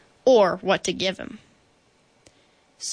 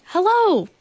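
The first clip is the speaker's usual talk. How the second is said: high call bouncing back; echoing shout; 10 semitones higher, 5 dB louder than usual. A narrator's reading. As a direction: holler it like a mountain echo. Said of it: "his own voice echoed off".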